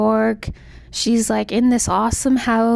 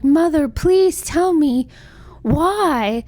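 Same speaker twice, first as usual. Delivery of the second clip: slow, higher pleading whine; mock crying plea; 5 semitones higher, slower than usual. Crying daughter begs mother for the reason, mock-pleading. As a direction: plead with mother, drawing it out dramatically. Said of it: "crying and so sad".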